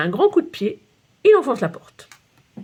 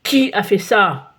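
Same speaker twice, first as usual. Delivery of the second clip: slow, louder stern question; furious demand; 4 dB louder, slower than usual. Acted. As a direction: demand who did it, furious. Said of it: "ouvre la fenêtre furieux". (le directeur furieux à la fenêtre)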